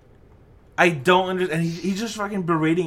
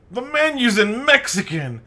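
higher-pitched mock complaint; mocking outraged customer voice; 8 semitones higher, 3 dB louder than usual. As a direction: imitate an indignant diner kicking up a fuss. Imitating irate restaurant customer.

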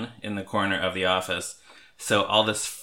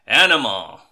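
loud shouted Animal voice; 2 semitones higher, 8 dB louder than usual. Retold or imitated. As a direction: bellow the name like Animal. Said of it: "Animal has the line".

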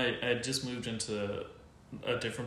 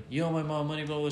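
imitated daughter, pitched up; demanding daughter; 5 semitones higher, faster than usual. Daughter confronting the tenant in the store, demanding. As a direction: put on a higher voice to demand money.

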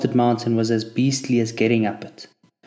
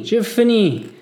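higher, loud wail of giving up; despairing moan, louder; 10 semitones higher, 6 dB louder, slower than usual. A narrator's reading. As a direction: let it break into a wail. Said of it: "I heard moan behind me".

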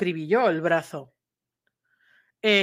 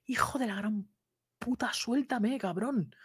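unvoiced, much softer whispered swearing, slow; whispered curse; 9 dB quieter, slower than usual. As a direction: hiss the insult under your breath. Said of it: "por lo bajini iba diciendo". (susurro bajo, maldiciendo entre dientes)

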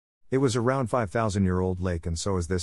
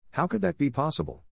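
gasping shock; 7 semitones higher than usual. A narrator's reading. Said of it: "I gasped and clasped my mouth".

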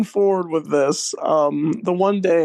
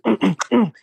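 quick rhythmic hummed grunts; imitated dancing grunts; 2 semitones higher than usual. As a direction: mimic grunting along to a little dance. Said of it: "he's just dancing right there".

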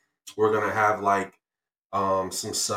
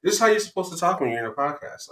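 a light put-on radio voice, raised up; podcast host voice; 8 semitones higher, faster than usual. Shown as a demonstration. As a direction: play the smooth podcast host. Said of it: "Why are you talking".

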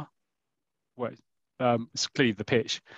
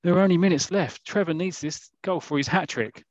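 lightly voiced crowd member, higher pitched; a hint of urgent fan; anxious spectator; 5 semitones higher than usual. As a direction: raise the pitch like a spectator urging him on. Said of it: "Somebody in the crowd goes".

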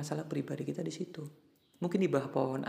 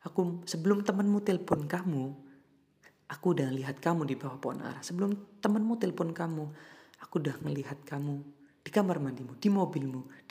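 loud assurance; 3 semitones higher, 5 dB louder than usual. Acted. God answers the crying believer.

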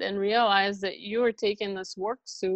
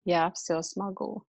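Russian mantra again; 4 dB quieter than usual. Shown as a demonstration. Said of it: "do it again".

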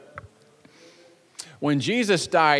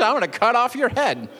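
cocky boast; 4 semitones higher than usual. Acted. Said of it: "he didn't say that last part".

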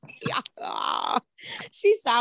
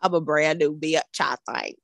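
put-on Texas accent; 4 semitones lower than usual. Co-host showing off to friends, Texas accent. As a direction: lower Texas twang. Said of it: "flexing my Texas accent".

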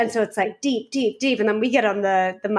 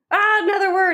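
loud, high amused aha; an amused higher aha; excited aha; 9 semitones higher, 5 dB louder than usual. Retold or imitated. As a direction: catch the word with glee. Amused inner exclamation.

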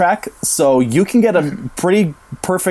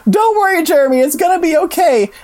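Brooke. Retold or imitated. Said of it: "Brooke runs up to him and she's like".

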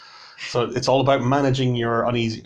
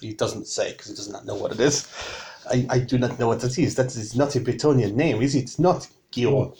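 put-on lightly French-accented Bretonian tavern keeper; stiffly careful French-accented English. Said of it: "I still don't do a French accent".

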